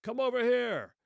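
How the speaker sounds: put-on loud, high shout in a German accent; German accent call. German soldier calls across no man's land, in a high, loud German-accented shout. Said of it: "a voice with a thick German accent".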